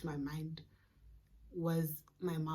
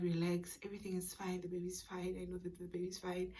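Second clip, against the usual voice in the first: hushed self-reassurance; 6 dB quieter than usual. Retold or imitated. Calming herself on the way.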